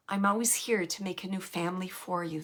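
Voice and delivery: softly whispered, gentle message passed on; whispered promise. Retold or imitated. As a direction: whisper it like a secret reassurance. Relaying spirit's tender promise.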